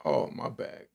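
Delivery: whispered sheepish apology. Real, not acted. Apologizing to viewers after the outburst, whispered. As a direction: whisper a quick sorry. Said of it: "I got emotional".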